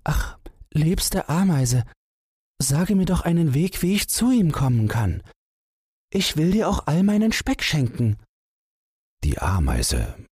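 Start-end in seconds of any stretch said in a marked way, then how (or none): 0.0-8.2 a tiny mouse begging sweetly; high mouse voice pleading with the ant; pleading little mouse. A narrator's reading. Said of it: "Wackelohr bat".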